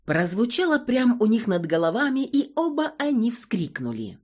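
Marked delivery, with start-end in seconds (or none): none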